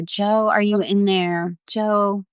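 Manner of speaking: mildly acted calling down a well. Rescuer calling to Jo down in the well, calling down. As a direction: call to a lost child, gently urgent. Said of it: "we're calling down to her".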